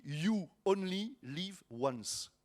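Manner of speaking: slow English phrase in a French accent. Shown as a demonstration. Pastor explaining the yolo acronym, French-accented English. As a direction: say the English slowly, as a French speaker. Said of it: "Vous avez vu mon ang-, mon, mon accent".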